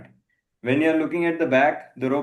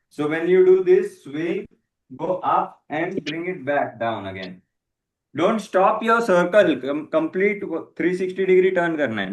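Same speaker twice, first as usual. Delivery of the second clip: coach calling out; 3 dB louder than usual. Real, not acted.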